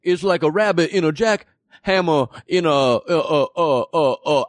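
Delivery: hammy Looney Tunes cowboy; Yosemite Sam voice. Pretend. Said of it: "You sound like ... Yosemite Sam".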